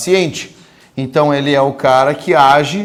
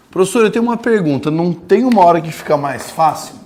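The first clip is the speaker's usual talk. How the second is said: mock student question; 3 semitones higher than usual. Teacher voices a student asking.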